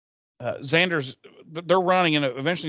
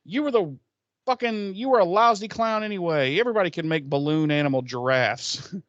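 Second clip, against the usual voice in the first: mock tough guy; 5 semitones higher than usual. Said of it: "he was like".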